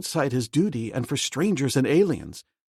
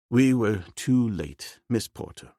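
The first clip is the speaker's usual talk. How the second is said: sad; slower than usual. Acted. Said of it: "he replied sadly".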